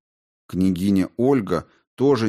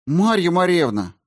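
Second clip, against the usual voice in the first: high, loud anxious call of her name; urgent call; 10 semitones higher, 5 dB louder than usual. A narrator's reading. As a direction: blurt it out, nerves finally breaking. Boy calls out to the queen.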